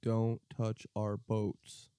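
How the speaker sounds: slow, drawn-out warning; stern warning. Acted. Warning other nations off the boats, stern and slow. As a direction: spell it out slowly as a threat.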